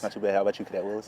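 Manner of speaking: raspy, worn-out voice; hoarse voice. Real, not acted. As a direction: talk through a hoarse throat. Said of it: "You got a little hoarse voice on you today?".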